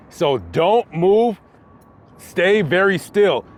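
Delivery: slow, calm, firm; calm instruction. Retold or imitated. Paramedic calming the injured rider, slow and steady. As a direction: slowly tell him to stay still. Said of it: "He said".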